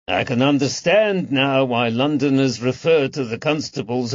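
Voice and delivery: lightly voiced tailor, gently mocking, rising on miles away; a hint of a witty host enjoying his joke; amused tailor. Drachman jokes about Robin Redbreasts.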